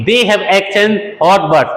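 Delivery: slow, deliberate teacher read; slow example sentence for learners; slow model sentence. Shown as a demonstration. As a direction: dictate each word slowly. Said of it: "तो बोलेंगे".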